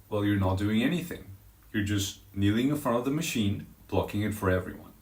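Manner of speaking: low, even, composed reply; kindly, very calm. Retold or imitated. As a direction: explain it kindly and calmly. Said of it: "very kindly, very calmly, I say".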